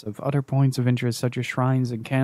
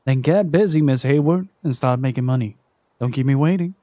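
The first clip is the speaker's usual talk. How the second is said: stern debt collector; faster than usual. Acted. Collector to Naomi, lightly voiced and stern. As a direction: lay down the law like a calm collector.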